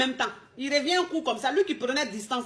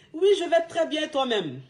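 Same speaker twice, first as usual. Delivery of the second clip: cheerful phone answer; 3 semitones higher than usual. Shown as a demonstration. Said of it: "Tu dis allô".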